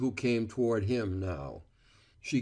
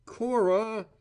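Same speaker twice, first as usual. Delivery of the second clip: pleading higher call of her name; begging; 11 semitones higher than usual. A narrator's reading. Val begging Cora one last time, pleading. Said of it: "he begged".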